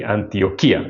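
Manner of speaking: "Antioquía" stressed an-tio-KÍ-a. Shown as a demonstration. Preacher explains the written accent, stress on the I. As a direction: put the weight on the í of "Antioquía". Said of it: "tiene el acento en la I".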